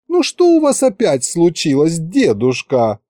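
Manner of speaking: capricious drawl. Acted. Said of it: "капризно протянула Маша".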